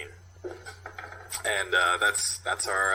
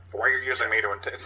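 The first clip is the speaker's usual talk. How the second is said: quick, slightly raised gangster voice; Roy Scheider try; 3 dB louder, much faster than usual. Retold or imitated. Sasha retried as Roy Scheider, quick and tense. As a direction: rush it like a nervous informant. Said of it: "Roy Scheider".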